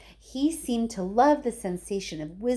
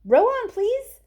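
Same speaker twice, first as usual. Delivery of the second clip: shouted order; 8 dB louder, slower than usual. A narrator's reading. Wonka calling to rowers.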